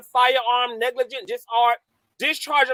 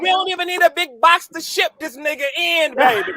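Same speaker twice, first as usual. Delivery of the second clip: gloating taunt; 5 semitones higher, faster than usual. Real, not acted. Taunting about deportation.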